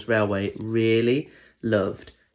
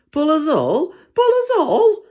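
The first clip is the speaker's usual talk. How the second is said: much higher, squeaky mocking echo; giggling trucks; 6 dB louder than usual. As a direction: jeer it back, rising higher and louder. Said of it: "The trucks giggled".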